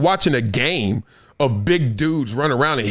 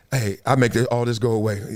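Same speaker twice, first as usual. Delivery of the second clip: lowered, hushed hustler voice; low shady guy voice; 7 semitones lower than usual. Retold or imitated. Driver quotes the guy offering to make it go away, low and hushed. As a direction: lean in low like a shady fixer. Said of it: "he said".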